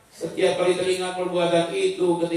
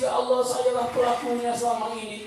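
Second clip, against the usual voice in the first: higher-pitched lament, lightly acted; acted tearful confession; 5 semitones higher than usual. A penitent hears talk of credit, tearful confession. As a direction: plead as if moved to tears. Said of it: "dia langsung menangis".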